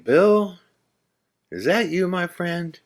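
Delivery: put-on high, hopeful call to an old friend; calling out to a ghost. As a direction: manager calling up to his late friend Bill, hopeful and high. Manager calls out to ghost.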